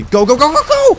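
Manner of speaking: shrieking, very high and loud; panicked yelling. Real, not acted. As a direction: scream at yourself to run. Running from monster.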